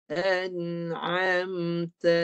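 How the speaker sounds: "An'amta" very slow, hamzah at the start; hamzah, not ain. Shown as a demonstration. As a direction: model "An'amta" slowly, each sound drawn out. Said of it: "jangan guna ain".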